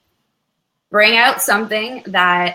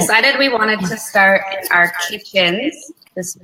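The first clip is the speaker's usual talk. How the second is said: echoing. Real, not acted. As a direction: voice echoing in a big room. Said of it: "Sorry, I'm echoing".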